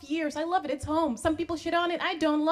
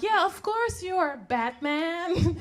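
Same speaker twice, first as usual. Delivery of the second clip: higher, slow humoring tone; placating pretend agreement; nice, indulgent; 6 semitones higher, slower than usual. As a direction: humor them with drawn-out mock niceness. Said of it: "we're so nice about it".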